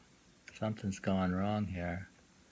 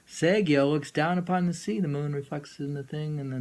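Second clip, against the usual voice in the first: emphatic paraphrase; 6 semitones higher, 7 dB louder than usual. Acted.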